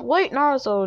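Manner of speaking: high, loud call after him. Acted. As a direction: call out before he leaves. Tsunade calls after Naruto.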